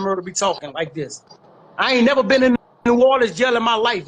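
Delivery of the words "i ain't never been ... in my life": firm, insistent denial in a single run; emphatic denial. Real, not acted. Speaker rebuts the rumour about New Orleans jail, emphatic denial. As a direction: run the denial out in one forceful breath.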